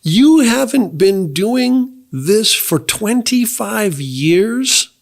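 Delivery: high, laughing double-take; a retold stunned wait-what at the meeting; laughing disbelief. Hearing a man still call himself an addict, laughing disbelief. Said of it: "and I'm like".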